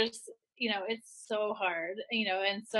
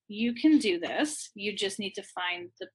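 deliberate self-talk. Retold or imitated. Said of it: "saying to myself very deliberately".

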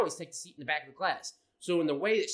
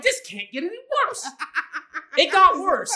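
high, laughing disbelief; 10 semitones higher, 8 dB louder than usual. Retold or imitated. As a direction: laugh through the dread. Laughing at the memory.

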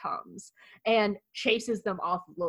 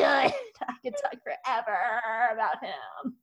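laughing fondness. Real, not acted. Overcome with fan love.

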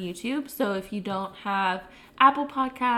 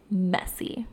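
breathy whispered echo; 2 semitones lower than usual. Acted. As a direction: whisper the word.

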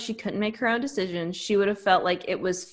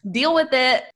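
mock bossy demand; 4 semitones higher, 5 dB louder than usual.

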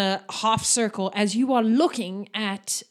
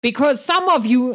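a bit louder, lightly voiced big orc; booming orc teacher; 3 semitones higher, 4 dB louder than usual. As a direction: project like the orc teacher addressing the class. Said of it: "his booming voice rolls out".

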